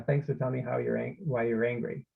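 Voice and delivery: dull, uninterested acknowledgment; monotone parent brushing it off; flat tone. Shown as a demonstration. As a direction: say it flat, going through the motions. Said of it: "it's kind of a flat tone".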